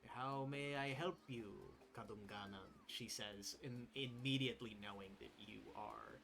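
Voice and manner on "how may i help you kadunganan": a hint of a polite old supervisor; old woman Lawi. Lawi addresses the player.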